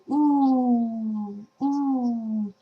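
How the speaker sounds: mild ooh at fireworks. Acted. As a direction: lips pursed, a soft wondering ooh. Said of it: "looking at fireworks and you're saying".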